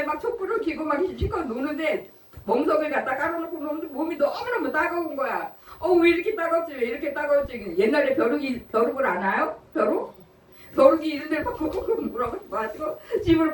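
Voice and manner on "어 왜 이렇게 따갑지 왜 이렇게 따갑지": startled by stinging fleas; puzzled startle. Retold or imitated. Itchy fleas in the barn.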